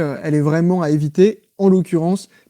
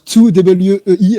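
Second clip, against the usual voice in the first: slow, louder spelling of two W E I in an English accent; 2 semitones higher, 6 dB louder, much slower than usual. Shown as a demonstration. Host reading a listener's name on air, in a put-on English accent. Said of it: "sur mon accent anglais".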